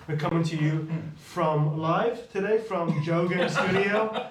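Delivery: slow, announcer-like newscaster read. Real, not acted. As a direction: read it like a news anchor. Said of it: "sounds like a newscaster".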